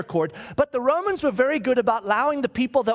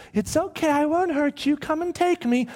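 higher-pitched, coaxing reassurance; lightly acted soothing, pitched up; 5 semitones higher than usual. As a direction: reassure someone who is scared of you, voice lifted. Acts Jesus reassuring the fallen soldiers.

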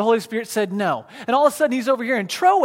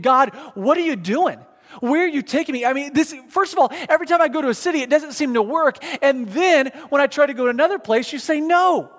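exasperated imagined prayer, pitch climbing higher; frustrated complaint to God; 4 semitones higher than usual. Retold or imitated. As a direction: vent at God, rising and rushing. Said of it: "I would have been frustrated saying".

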